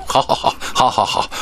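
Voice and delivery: laughing yes yes; high laughing surrender. Acted. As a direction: give in with a laugh. Caught out, laughing.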